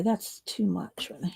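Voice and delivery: whispered under the breath to herself; a soft whisper while fixing a mistake; whispered aside. Real, not acted. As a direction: drop to a whisper mid-task. Muttering to self while painting.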